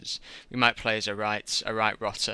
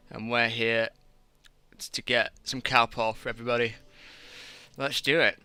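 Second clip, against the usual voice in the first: talking around a cigarette; cigarette in mouth. Real, not acted. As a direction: cigarette held between the lips. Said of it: "Probably best not to stream with a cigarette in my mouth".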